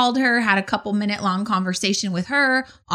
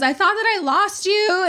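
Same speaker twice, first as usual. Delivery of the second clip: high, pleading imitation of the husband; husband's pleading voice; 9 semitones higher than usual. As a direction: mimic a clingy, teary husband. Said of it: "he goes".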